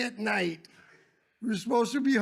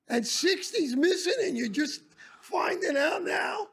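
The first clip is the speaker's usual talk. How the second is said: higher, mock-furious telling-off, rising to a yell; retold angry scolding; 5 semitones higher than usual. Trip leader scolding the lady teachers, mock-furious. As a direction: scold them like it's their fault.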